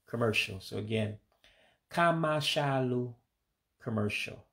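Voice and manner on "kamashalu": Igbo accent. Shown as a demonstration. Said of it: "with an accent to it".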